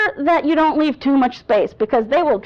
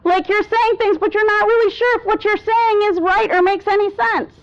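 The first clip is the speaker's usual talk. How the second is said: raised, unsure questioning pitch; uncertain uptalk; 6 semitones higher than usual. Shown as a demonstration. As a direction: sound unsure, every phrase lifted. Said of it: "that's not what we want".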